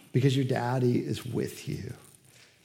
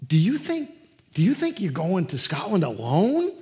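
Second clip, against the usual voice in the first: surprised question; 4 semitones higher, 4 dB louder than usual. Retold or imitated. Dad surprised by the answer.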